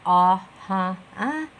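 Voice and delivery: isolated "ah, huh, ah" hesitation noises; demonstrated filler sounds. Shown as a demonstration. Teacher showing listeners distracting fillers, isolated hesitation sounds. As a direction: mimic someone's verbal fillers. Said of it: "by your fillers".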